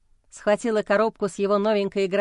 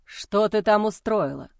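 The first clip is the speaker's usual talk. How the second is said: accusing outburst. Acted. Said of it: "обвиняюще выпалил".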